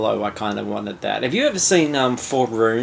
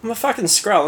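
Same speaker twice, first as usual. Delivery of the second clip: Australian Skrull; 8 semitones higher than usual. Retold or imitated. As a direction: stretch it out like a proud Aussie larrikin. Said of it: "a hundred percent Australian accent".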